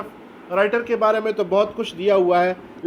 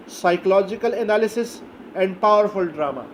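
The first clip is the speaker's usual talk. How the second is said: psychological analysis, and powerful drama spelled out very slowly; slow dictation; much slower than usual. Shown as a demonstration. Teacher dictating key terms to class, very slow. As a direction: drag each word out for note-taking. Dictated phrase, later repeated plainly.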